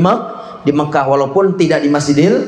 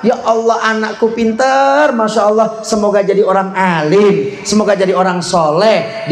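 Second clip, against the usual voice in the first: good-word prayer; 3 semitones higher than usual. Shown as a demonstration. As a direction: turn exasperation into a lilting prayer. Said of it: "Tapi ucapan apa?".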